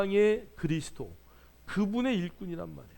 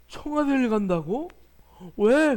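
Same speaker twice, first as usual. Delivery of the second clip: mock astonishment; 3 semitones higher, 5 dB louder, slower than usual. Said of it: "pastor's retold reaction".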